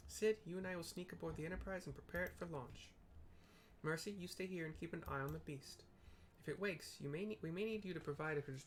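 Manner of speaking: a hint of a proud young leader giving orders; young noble voice. Reading Alphinaud's cutscene lines.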